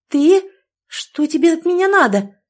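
high, loud furious snap; angry bark. A narrator's reading. Heroine snaps at the groom who grabbed her, loud high bark. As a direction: bark at him in fury. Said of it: "рявкнула".

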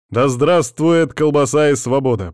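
loud mock-solemn proclamation; proclaiming. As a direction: proclaim it like a toast. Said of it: "провозглашаю я".

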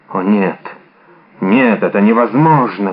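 low, hushed denial; horrified disbelief. A narrator's reading. Athos struck by a terrible suspicion, low disbelief. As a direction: refuse to believe it, voice sunk low.

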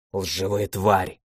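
venomous slow hiss, voice dropped right down. Acted. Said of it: "прошипела сотница".

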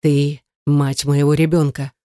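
slow, low, gritted-teeth warning; David grits out a warning to Yana; through gritted teeth. Acted. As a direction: grind each word out slowly. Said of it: "процедил Давид".

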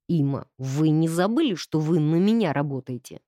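low, stern displeased man; displeased count. Acted. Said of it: "недовольно сказал он".

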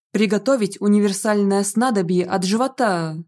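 plain reading voice

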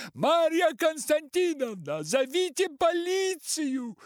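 high, loud, frantic cry for help; desperate scream. A narrator's reading. Артур зовёт Марью Константиновну на помощь, отчаянный крик. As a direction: scream for the police as if beaten. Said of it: "Артур кричит отчаянно".

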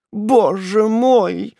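high, slow drawn-out moan; anguished moan. Acted. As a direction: moan it out in despair. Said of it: "простонала несчастная девушка".

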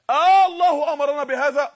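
loud questioning call to the crowd; loud, laughing-edged preacher question; emphatic preacher question. Acted. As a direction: throw the question out with force.

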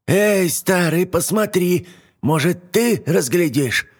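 put-on high, slow old hag calling; witch calling out. Yaga calls to Koshchei.

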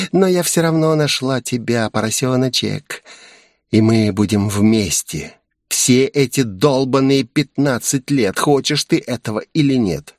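a hint of a gloating demon voice; lightly voiced vengeful demoness; menacing demoness. Demoness threatens the hero.

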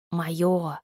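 gurgling monster voice, barely words; tentacle alien. A narrator's reading. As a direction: growl and gurgle like a hungry creature. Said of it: "непонятные звуки, в которых едва угадывались слова".

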